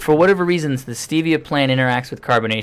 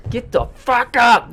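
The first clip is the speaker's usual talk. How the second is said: slow, higher mock yell of the line; imitating the rant; 9 semitones higher, slower than usual. Friend quoting the comedian's wake-up rant, mock yelling.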